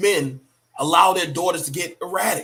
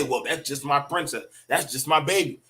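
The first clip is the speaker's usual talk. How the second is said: mock doting parent voice, lower and softer; indulgent parent; 5 semitones lower, 4 dB quieter than usual. Dad mockingly excusing his daughter's tantrum in a doting voice. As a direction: ham up a dad excusing his spoiled girl. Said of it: "Don't say".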